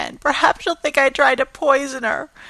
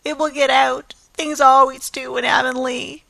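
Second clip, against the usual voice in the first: tearful lament; 5 semitones higher, 4 dB louder, faster than usual. Acted. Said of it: "sobbed Anne".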